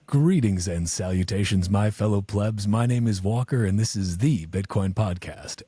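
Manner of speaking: signature show-opener, slowing on the last line; measured host introduction, no put-on filter; podcast intro. Shown as a demonstration. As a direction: throw down your podcast greeting in your own voice. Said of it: "Come on, throw it down".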